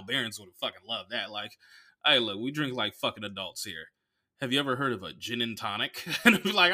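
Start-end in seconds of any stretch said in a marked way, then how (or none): 2.0-6.0 understated teasing delivery; light ribbing from a bartender in on the joke; humorous, with a wink. Shown as a demonstration. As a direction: say it as a playful joke. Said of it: "a humorous with a wink way".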